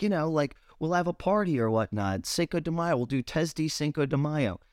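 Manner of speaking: a light mock voice of a clueless friend. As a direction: play him cheerfully oblivious. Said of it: "He's like".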